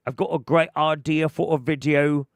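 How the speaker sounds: mocking drunk Mario. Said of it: "And he's like".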